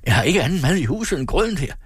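high-pitched, agitated complaint; furious. A narrator's reading. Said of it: "pegede rasende på grøden". (rasende klage i højt toneleje)

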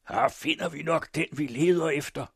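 high, loud triumphant cry; Morten Bruus. A narrator's reading. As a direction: cry out that you've found it. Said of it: "skreg Bruus".

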